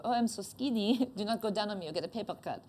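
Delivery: lightly voiced snooty French accent; mock French accent, trailing into a laugh. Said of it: "and then French is".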